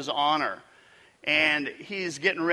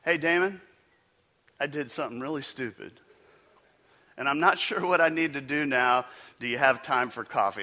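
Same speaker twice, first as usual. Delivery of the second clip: troubled caller. Retold or imitated. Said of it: "go something like this".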